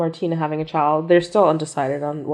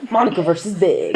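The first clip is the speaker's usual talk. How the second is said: laughing; 4 semitones higher than usual. Real, not acted. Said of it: "In the case of Monica Big".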